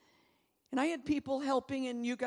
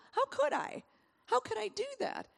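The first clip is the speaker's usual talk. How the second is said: disbelieving cry; 11 semitones higher than usual. Acted. Beaten prisoner protests he can't stand.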